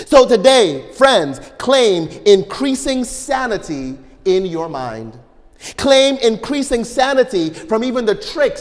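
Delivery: fervent sermon delivery, pressing each phrase; preaching. Acted. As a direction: urge the congregation on with rising force. Preaching exhortation to the congregation.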